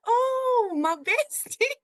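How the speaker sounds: high, drawn-out gushy squeal of greeting; sudden fake-bestie gushing; gushing mock delight. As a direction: imitate a suddenly over-friendly friend, loud and high. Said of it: "she was automatically like".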